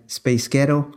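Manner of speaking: put-on slow "Spice Girl" in a Scottish accent. Shown as a demonstration. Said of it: "That's how you pronounce Spice Girls with a Scottish accent".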